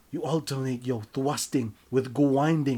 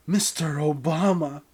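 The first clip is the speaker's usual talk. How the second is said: Mister Obama said out loud and firm, higher; louder repeat; 6 semitones higher, 9 dB louder than usual. Acted. You repeating the name louder to the lover. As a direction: insist on it, louder this time. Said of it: "repeated louder for the partner".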